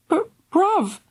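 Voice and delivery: high, crying plea; tearful plea. A narrator's reading. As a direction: beg him through tears. Sister near tears.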